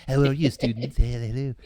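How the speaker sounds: put-on cartoon character voice; Family Guy impression. Teacher greeting his students, in a Family Guy cartoon voice. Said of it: "got pretty good at Family Guy".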